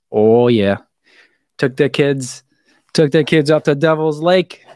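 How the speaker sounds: light, friendly Midwestern accent, vowels drawn out a little. Shown as a demonstration. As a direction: retell the family trip with a mild Midwestern accent. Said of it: "I didn't say it with a Midwestern accent".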